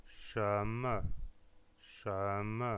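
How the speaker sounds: shem: rising second tone, then an unstressed syllable; rising tone then neutral. Shown as a demonstration. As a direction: lift the first syllable of shem, drop the second. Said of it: "c'est un deuxième ton suivi d'une syllabe non accentuée". (deuxième ton puis syllabe atone)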